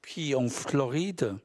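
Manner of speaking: measured literary recitation, phrase by phrase; deliberate spoken-verse delivery with spaced-out phrases; poem reading. Acted. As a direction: read your poem to an audience, pausing after each line. Poet reads his poems aloud.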